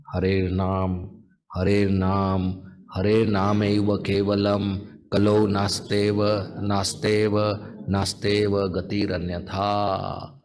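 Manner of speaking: low, measured Sanskrit verse; shloka recitation. Acted. Tells the sannyasis the famous shloka, reciting. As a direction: recite it evenly on a low note.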